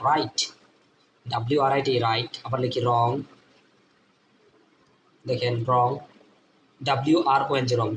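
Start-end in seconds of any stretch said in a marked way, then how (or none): 0.1-0.4 রাইট beginning on a plain R; silent W demo. Shown as a demonstration. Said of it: "এর উচ্চারণ হয় না". 5.7-5.9 রং with no W sound at the front; silent W. Shown as a demonstration. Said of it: "ডাব্লিউ এর উচ্চারণ হবে না".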